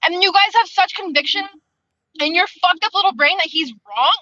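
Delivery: high-pitched, indignant retelling; retold fuming. Reader retelling outrage at a story's officers, fuming. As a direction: replay your outrage at their certainty.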